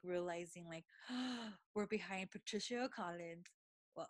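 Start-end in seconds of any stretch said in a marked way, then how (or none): 1.0-1.7 sharp gasp of realization; sudden intake of breath, acting out amazement.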